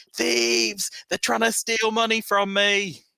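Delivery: frantic, shrill, very loud and very high panicked scream. Acting out a man in a bar screaming at everyone, retelling his panicked scream. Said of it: "he's just screaming like".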